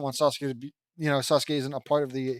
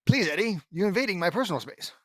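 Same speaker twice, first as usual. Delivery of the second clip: Double D impersonation; 2 semitones higher, faster than usual. Acted. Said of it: "imitating Double D".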